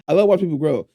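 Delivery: fast, laughing at the double meaning; amused and quick. Shown as a demonstration.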